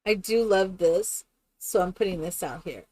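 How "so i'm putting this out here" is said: whisper. Real, not acted. Whispered aside while building.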